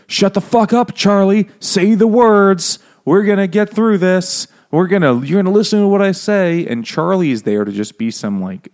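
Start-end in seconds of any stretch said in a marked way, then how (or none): 0.1-6.7 loud, high-pitched hammed-up ordering; Pulp Fiction tough guy. O J ordering Charlie around in the book, mock shouting. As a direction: shout it like a mock movie gangster. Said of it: "turns into a character from Pulp Fiction".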